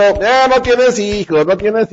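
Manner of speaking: taunting, slow mocking tone; burla imitada. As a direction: tease her like a cruel rival. Penina se burla de Ana. (burla lenta y cruel)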